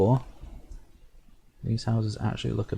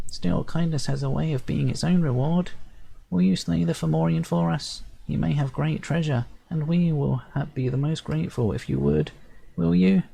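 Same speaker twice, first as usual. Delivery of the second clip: pleading sprite chief; 7 semitones higher than usual. Acted. Sprite chief begging the hero to slay the beast, high and pleading. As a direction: beg the hero with tiny dignity.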